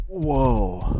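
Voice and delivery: very high, drawn-out whoa of astonishment; startled whoa. Real, not acted. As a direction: pitch it way up in amazement. Startled by the game glitch.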